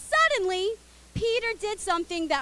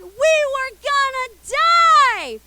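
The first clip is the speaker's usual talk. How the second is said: mock dread; 7 semitones higher, 10 dB louder, slower than usual. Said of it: "they all thought".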